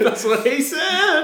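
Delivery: loud, high, drawn-out through laughter; laughing. Real, not acted. Co-host pouncing on an innuendo, laughing hard. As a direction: crack up while delivering the punchline.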